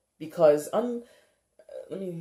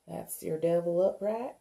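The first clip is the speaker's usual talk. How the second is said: put-on southern accent; 4 semitones higher than usual. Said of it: "talking in southern accents".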